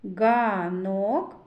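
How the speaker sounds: "Ганок" with a long а; vowel А drawn out. Shown as a demonstration. Teacher showing children the vowel А, held long in "Ганок". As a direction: stretch the first vowel of "Ганок". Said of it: "А голосний".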